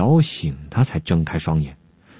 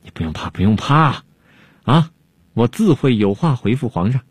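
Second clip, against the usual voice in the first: reassuring; 2 semitones higher than usual. Acted. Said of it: "东方朔安慰他".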